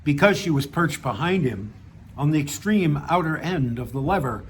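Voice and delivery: measured reading of a written story; story narration. A narrator's reading. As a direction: read your short story aloud, pausing between sentences. Reads own story aloud.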